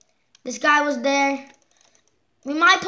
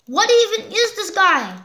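baffled question; 6 semitones higher, 3 dB louder than usual. Real, not acted. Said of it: "repeated louder".

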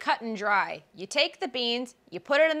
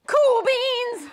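cool beans; 12 semitones higher, 5 dB louder than usual. Acted. Punchline after bean list.

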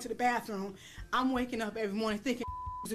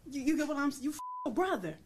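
shocked outburst; 8 semitones higher than usual. Retold or imitated. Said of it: "I was like".

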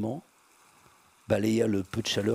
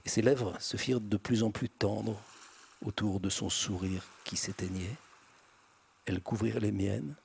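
ordinary delivery, nothing marked

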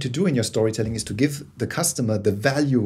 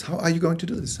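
curious question, pitched higher; 6 semitones higher, 3 dB quieter than usual. Shown as a demonstration. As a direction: ask it higher, really wanting to know. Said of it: "I'm curious".

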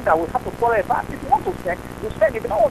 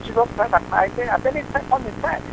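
louder, indignant defence of faith; heated protest; 2 semitones higher, 6 dB louder than usual. Real, not acted. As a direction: fight back for his right to pray. Caller defends his faith angrily.

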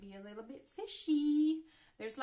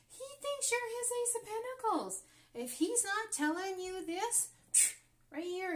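excited; 10 semitones higher, 3 dB louder than usual. Real, not acted. Thrilled tarot reveal to viewers.

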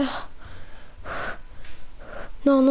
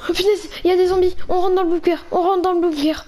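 alarmed; 4 semitones higher, faster than usual. Acted. Player spotting zombies, rushing to the bunker, fast and alarmed. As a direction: blurt it out in a rush. Spots zombies, rushes inside.

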